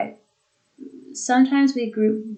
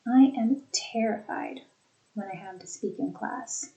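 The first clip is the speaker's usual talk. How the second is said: two chunks split after terrified; two thought groups. Shown as a demonstration. Teacher repeating two groups for students. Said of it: "Two thought groupings".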